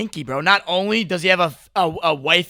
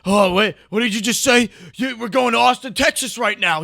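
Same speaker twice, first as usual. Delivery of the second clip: mock wide-eyed excitement; 4 semitones higher, 3 dB louder than usual. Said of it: "he's like".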